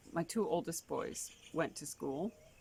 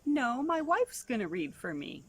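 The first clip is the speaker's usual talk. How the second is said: put-on stubborn boy; 6 semitones higher, 5 dB louder than usual. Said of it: "he said".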